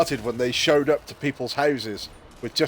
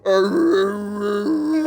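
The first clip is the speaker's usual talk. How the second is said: higher mock bear wail; crying bear; 7 semitones higher, 3 dB louder, much slower than usual. Bear crying at the mother's door, mock wail. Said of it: "the bear's going".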